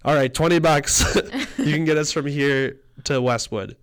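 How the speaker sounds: a hint of tipsy Kate bargaining, laughing; imitating drunk Kate. Retelling the cab ride, voicing drunk Kate bargaining loudly. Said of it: "and she's like".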